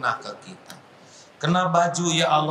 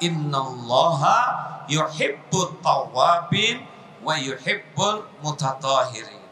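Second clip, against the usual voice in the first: quran recitation. Acted. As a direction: recite the verse reverently. Mengutip ayat Al-Quran. (membaca ayat dengan khidmat dan pelan)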